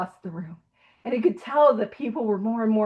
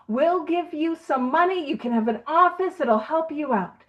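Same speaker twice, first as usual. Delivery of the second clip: pitching salesman; 4 semitones higher than usual. Retold or imitated. Hospital owner offers Bill a job, pitching it.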